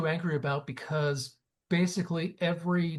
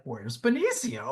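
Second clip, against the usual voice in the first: high, drawn-out mock pining; mock plaintive; 7 semitones higher, slower than usual. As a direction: call for someone you miss, hammed-up. Retold missing of a favourite actor.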